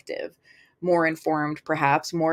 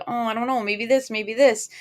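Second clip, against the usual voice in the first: wishy-washy dithering; 4 semitones higher than usual. Retold or imitated. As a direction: play the indecisive one, lightly. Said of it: "emotional wishy-washy".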